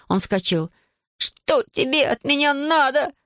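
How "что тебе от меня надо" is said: high, slow, halting protest; indignant stammer. A narrator's reading. Иван jumps up against Аделаида, stammering with indignation. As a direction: stumble over it in indignation, pitched up. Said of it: "заикаясь от возмущения, спросил он".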